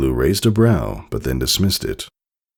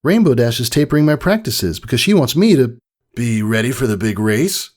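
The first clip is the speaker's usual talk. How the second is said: filly voice; 9 semitones higher, 3 dB louder than usual. A narrator's reading. Scootaloo explaining.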